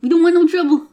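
lightly voiced Nathan Lane. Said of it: "A Nathan Lane voice".

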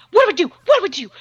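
hammed-up kid alarm; imitated panicked kids. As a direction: play frantic children asking for help. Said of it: "the kids are like".

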